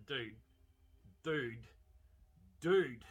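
from plain to a loud shouted dude; building mock yell. Viewer yelling at the oblivious driver, building to a shout. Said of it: "you're like, uh".

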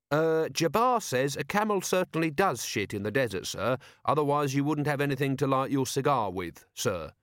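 put-on eager polite young watchman; Carrot's voice.

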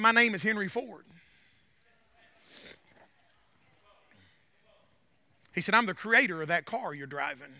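low, hushed reveal; Henry Ford. Retold or imitated. Car's creator revealing himself to the stranded driver, low and quiet. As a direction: say it low and soft, letting the reveal land.

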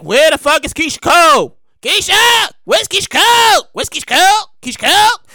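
mock impatient yelling. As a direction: shout into the crowd for her. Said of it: "And we like".

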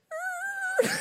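high, held creaking noise; long squeaky creak; imitated door creak. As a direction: mimic a slowly creaking door.

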